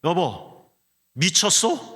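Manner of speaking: sharp high "are you crazy?"; wife's shocked outburst. Retold or imitated. Wife snapping at her husband, high and loud in disbelief. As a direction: blurt it out in disbelief, jumping up loud. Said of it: "아내가 말했어요".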